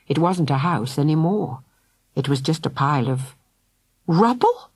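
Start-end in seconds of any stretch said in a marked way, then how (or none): 4.1-4.7 gasped. A narrator's reading. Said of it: "gasped Philly".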